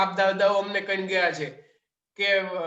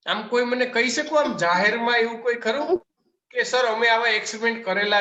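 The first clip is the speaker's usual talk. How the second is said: louder, hammed-up offended teacher; mock indignation; 2 semitones higher, 4 dB louder than usual. Teacher scolds class in mock offence, loudly indignant. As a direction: act outraged that students ruin his image.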